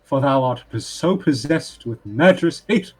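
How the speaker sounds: poem recitation. Acted. Bard reciting a sonnet to the family, declaiming. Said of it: "This is a poem".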